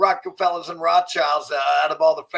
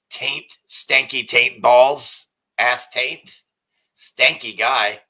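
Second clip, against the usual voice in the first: mocking name-calling; 6 dB louder, much slower than usual. Mocking name-calling of Andrew Tate.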